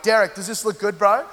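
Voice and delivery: mock-casual guy asking his mate; feigned indifference. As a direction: pretend you don't care, lightly acted. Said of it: "we just pretend we don't care".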